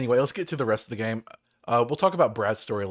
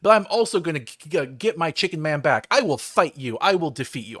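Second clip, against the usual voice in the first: mock heroic challenge; 2 semitones higher, 4 dB louder than usual. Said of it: "I'm like".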